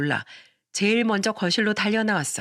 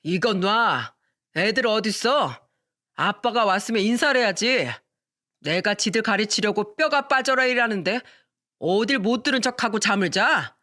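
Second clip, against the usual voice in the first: put-on drunk husband.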